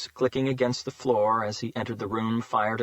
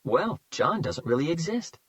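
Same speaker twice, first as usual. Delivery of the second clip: lightly friendly, higher fake-kind voice; friendly stranger voice; 5 semitones higher than usual. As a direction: switch to the kindly neighbor voice. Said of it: "the man's voice transformed into the same voice".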